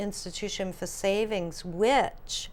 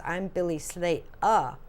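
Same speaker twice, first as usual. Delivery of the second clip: slow, clipped English vowels, Slatuh with no r; English accent. Retold or imitated. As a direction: say Slater the English way, r dropped. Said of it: "the way that he says it is".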